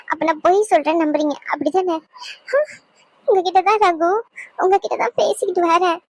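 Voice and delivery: tearful pleading with the husband to believe her; crying, pleading. Acted. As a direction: beg through tears. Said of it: "அழுகாத". (அழுதுகொண்டே கெஞ்சுதல்)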